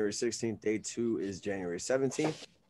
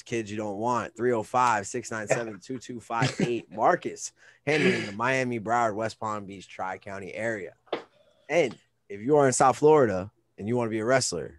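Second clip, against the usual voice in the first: sponsor ad read. Acted. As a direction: read the sponsor plug like a radio host.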